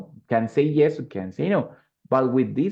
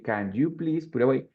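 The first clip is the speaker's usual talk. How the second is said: polite favor; 3 semitones higher than usual. Shown as a demonstration. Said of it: "but asking a favor".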